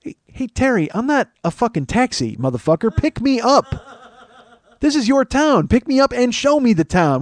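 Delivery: high, loud comic outrage; hammed-up indignant yelling; indignant rant. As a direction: tell off a clueless stranger in exasperated disbelief. Indignant reply to Terry's message.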